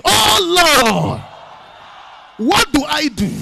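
desperate shouted prayer; shouted cry. Shown as a demonstration. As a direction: shout it like you mean it. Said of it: "Shout it like you mean it".

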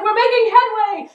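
high, sustained triumphant shout; excited cry. A narrator's reading. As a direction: call it out loud over the wind. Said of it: "he cried".

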